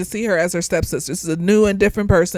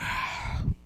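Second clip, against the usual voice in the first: long voiceless sigh; weary sigh; 14 dB quieter than usual. Retold or imitated. Viewer reacting to a too-curious heroine, sighing. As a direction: let out a soft, breathy sigh. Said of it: "And I'm just like".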